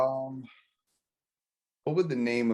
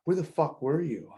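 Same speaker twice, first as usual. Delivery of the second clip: imitating an irate wife, pitched up; higher-voiced retold demand; mock angry wife; 6 semitones higher than usual. Wife demanding answers from the missing fisherman, mock angry.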